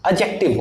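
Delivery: एडजेक्टिव said "ed-jek-tiv" with the D silent; एडजेक्टिव, silent D, falling tune; correct pronunciation. Shown as a demonstration. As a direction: say एडजेक्टिव with no D sound. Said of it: "सही उच्चारण".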